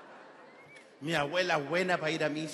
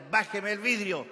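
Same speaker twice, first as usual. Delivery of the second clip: raised-pitch insistent demand; lightly voiced insistent policeman; policeman's order; 4 semitones higher than usual. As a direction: repeat the order like a cop at a car window. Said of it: "el carabinero lo miraba y le golpeaba el vidrio y le decía".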